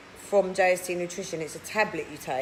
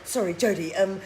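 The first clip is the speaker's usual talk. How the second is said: mock starstruck fan; 3 dB louder than usual. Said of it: "He'd go".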